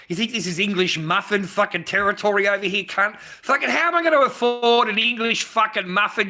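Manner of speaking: loud, high-pitched exasperated tirade; outraged rant. Real, not acted. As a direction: rant at the viewer in worked-up disbelief. Rants about not affording any muffins.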